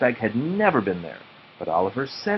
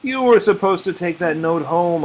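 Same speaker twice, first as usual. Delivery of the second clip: mild scolding; 8 semitones higher, 4 dB louder than usual. A narrator's reading. Nate scolds his dog Sludge.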